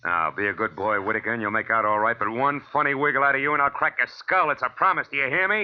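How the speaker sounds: loud, rising threat; menacing warning. Acted. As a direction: lean on him hard. Detective threatens Whitaker.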